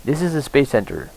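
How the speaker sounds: put-on reading the tutorial in an Indian accent; light Indian accent on the guide's lines. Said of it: "Why am I doing this with an Indian accent?".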